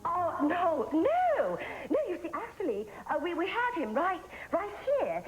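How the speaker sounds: high, lilting mock Swedish accent; put-on Swedish accent. Fake camp worker reassuring a worried father, put-on Swedish accent. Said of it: "You sound funny with that accent".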